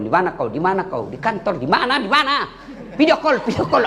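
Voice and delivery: a hint of a nagging wife calling. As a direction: pester him over the phone, rising at the end. (meniru istri cerewet yang menelepon)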